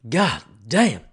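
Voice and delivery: shouted after coughing; loud exclamation. Real, not acted. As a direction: blurt it out loud. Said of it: "chili at the back of the throat".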